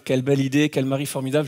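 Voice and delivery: playing the listeners' inner flattery; mock admiring thought. Preacher voicing the congregation's thought, mock admiring. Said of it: "tout ça c'est dans vos têtes".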